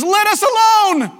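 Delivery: high, loud, drawn-out demon cry. Acted. Demon-possessed man crying out at Jesus, loudly. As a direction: cry it out loud, stretching the words. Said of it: "cries out with a loud voice".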